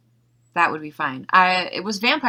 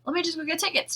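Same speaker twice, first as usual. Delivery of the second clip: high excited exclaim; 11 semitones higher, 4 dB louder than usual. Retold or imitated. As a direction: blurt it out, suddenly thrilled. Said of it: "And I was like".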